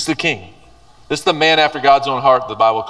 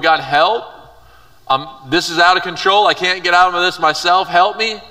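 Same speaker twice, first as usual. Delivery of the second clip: pleading cry; 4 semitones higher than usual. Pretend. Imagined plea to God.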